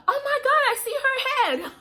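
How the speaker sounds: very high, loud startled squeal; shocked exclamation, imitated. Nurse spotting baby's head, imitated shocked cry. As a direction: blurt it out in acted alarm.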